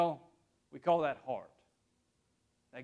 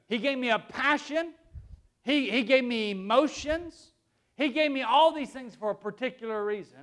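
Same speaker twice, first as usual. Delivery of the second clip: louder, higher preacher's delivery; emphatic preaching; 4 semitones higher, 5 dB louder than usual. Acted. Preacher telling church God made him for a purpose, emphatic preaching. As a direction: preach it out with conviction.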